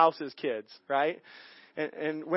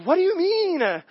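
much higher, startled squeak of innocence; mock baffled; 11 semitones higher than usual. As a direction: play dumb, caught off guard. Baffled reply to God.

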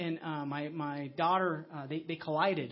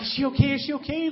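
higher and louder worried question; anxious asking; 7 semitones higher, 8 dB louder than usual. Retold or imitated. Friends rushing up to the father, anxiously asking about the girl. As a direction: voice the friends' alarmed concern.

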